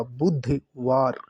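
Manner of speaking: बुधवार said very slowly, syllable by syllable, stressing the ध; slow spelled-out demo. Shown as a demonstration. Teacher slowly sounding out बुधवार for students. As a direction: draw out बुधवार so each sound is clear. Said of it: "ध आएगा".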